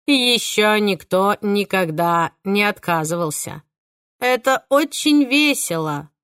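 put-on slow, childlike gleeful killer; delighted like a child. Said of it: "восторженно улыбнулся".

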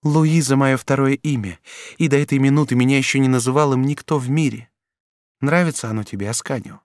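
duchess pleading. A narrator's reading. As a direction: lure him with tender promises. Duchess dialogue. (герцогиня страстно уговаривает юношу)

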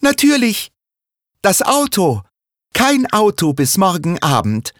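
high, loud cry of sudden discovery; girl hitting on the idea of the car, loud and high; excited shout. Acted. Girl suddenly shouting her idea to the family, loud excited cry. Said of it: "Plötzlich ruft Sarah".

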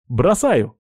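high warning call; shout. Acted. Man on the mast dropping the rifle, shouting. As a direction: call out as you let go. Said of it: "крикнул Горинц".

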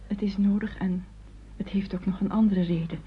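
hushed, half-whispered admission; confiding whisper. Acted. Nicole quietly tells her mother her real reason, whispered.

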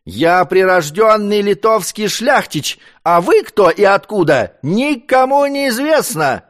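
put-on high, loud drunken yelling; drunken shout. A narrator's reading. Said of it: "кричал ему пьяный Казимир".

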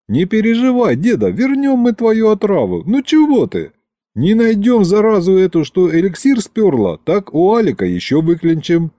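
high-pitched, coaxing encouragement; urgent reassurance. A narrator's reading. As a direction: talk him out of his gloom. Grandson cheering up despairing grandfather.

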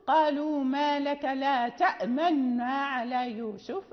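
slow recited "تأمنا" with lips rounding on the nun; Qalun recitation with ishmam. Shown as a demonstration. Teacher recites the verse for Qalun, slow, with ishmam. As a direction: recite "تأمنا" slowly, nun held, lips pointing the damma. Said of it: "إذا قرأنا لقالون نقول".

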